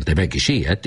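ordinary delivery

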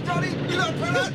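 high mock lament; feigned dismay, high-pitched; put-on wailing. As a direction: cry out in pretended horror. Staged wailing over the supposed accident.

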